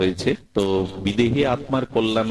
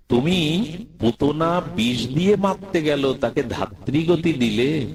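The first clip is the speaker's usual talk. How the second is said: hurt reproach; 8 semitones higher than usual. Acted. Surdas reproaches Gopal, hurt.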